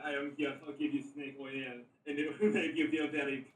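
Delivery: lightly put-on, clumsy Austrian accent; bad Austrian accent. Player voices his snake-oil salesman, bad Austrian accent. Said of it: "worst accent I've ever done".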